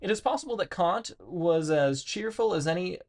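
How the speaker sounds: measured read-aloud of dense philosophy, stumbling on hard words. Acted. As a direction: read it out with lively, swinging emphasis. Reads philosophy text aloud.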